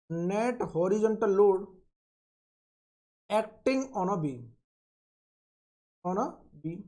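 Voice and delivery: very slow, word-by-word dictation for note-taking. Shown as a demonstration. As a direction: spell it out slowly so students can write it down. Teacher dictating a definition slowly. (धीमे-धीमे लिखवाना)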